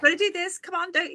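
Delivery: high, pushy bossy-boots voice; bossy inner critic. Retold or imitated. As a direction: nag like an annoying school teacher. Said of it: "it's like my inner bossy boots".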